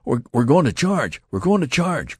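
breathless, high and loud with the big news; urgent excited shout to the lieutenant; excited cry. A narrator's reading. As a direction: blurt it out, stumbling with excitement. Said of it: "cried the youth friend".

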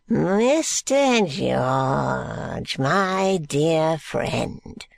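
put-on slow, gasping, wheezing old man; a decrepit old miser catching his breath. Grandfather Smallweed greeting George, slow and gasping. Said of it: "says Grandfather Smallweed".

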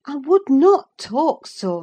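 anxious servant scolding; Nelly remonstrating. Acted. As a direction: urge him to stop talking so.

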